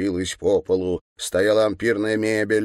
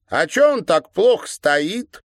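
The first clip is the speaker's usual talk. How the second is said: put-on high, louder girlish sneer; mocking girl; 11 semitones higher, 6 dB louder than usual. A narrator's reading. Girl poking the governor with a stick, high mocking sneer. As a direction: taunt him like a spiteful schoolgirl.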